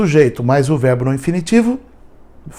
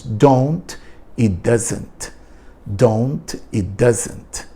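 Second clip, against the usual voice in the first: slow contractions; 3 dB quieter, much slower than usual. Shown as a demonstration. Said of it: "contrações".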